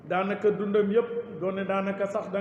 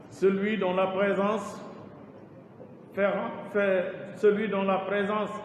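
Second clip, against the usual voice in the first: measured, lightly declaimed praise poem; poem recitation. Acted. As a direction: recite verse line by line, pausing after each.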